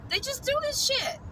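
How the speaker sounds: can't believe they do it; exasperated high disbelief. Real, not acted. Ranting to viewers about rescuers, squeaky disbelief.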